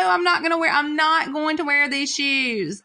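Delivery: lightly hammed-up child's whine; mock crying. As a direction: play the stubborn kid refusing. Mother imitates crying son.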